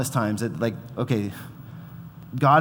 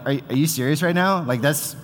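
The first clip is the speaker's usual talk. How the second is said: amused disbelief; 4 semitones higher, 4 dB louder than usual. Retold or imitated. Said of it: "where I'm just like".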